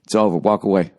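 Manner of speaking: low, even imitation of an unmoved friend; deadpan buddy. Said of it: "He's just staring straight ahead".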